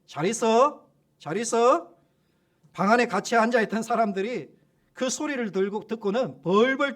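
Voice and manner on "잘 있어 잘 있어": a mock farewell, a little louder; departing demon's call. Demon leaving the room, mock loud farewell. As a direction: call goodbye on the way out. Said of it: "나가면서 소리를 치더라는 거예요".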